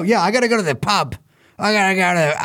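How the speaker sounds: a weak attempt at an Irish accent, quick; bad Irish accent. Host mocking pub-bound revelers in a shaky Irish accent. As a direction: fumble toward an Irish accent. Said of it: "how do I do an Irish accent?".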